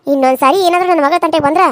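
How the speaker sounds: low, hard and fast warning; angry mother. Acted. Mother warning the aunt off her daughter, low and furious. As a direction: threaten her to stay away from your child.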